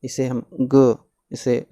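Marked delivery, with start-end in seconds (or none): 0.6-1.0 ग as a short half sound; halant ग. Shown as a demonstration. Teacher reading out half letters, short halant ग. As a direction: say ग without a full अ. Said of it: "ये आवाज़ नहीं आनी चाहिए".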